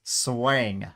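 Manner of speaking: SWANG in an exaggerated Texas twang; Texas accent. Shown as a demonstration. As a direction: demonstrate SWANG with a loud Texas drawl. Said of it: "you gotta have swang".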